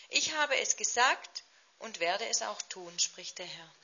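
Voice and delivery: measured, solemn Bible reading; solemn scripture reading. Acted. Reads Ezekiel 37 aloud.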